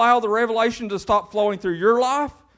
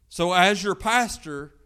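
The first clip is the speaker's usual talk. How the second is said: Southern twang; slower than usual. Real, not acted. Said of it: "My twang is pastor".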